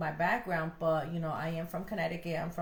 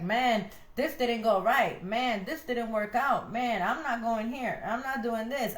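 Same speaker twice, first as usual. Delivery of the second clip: griping complainer; 3 semitones higher than usual. Retold or imitated. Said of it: "Always like".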